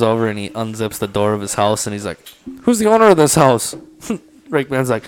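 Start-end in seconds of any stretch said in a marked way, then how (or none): 2.6-3.8 a higher, louder game warden voice; stern warden. Retold or imitated. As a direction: demand it like a warden at the door. Game warden questions the owner.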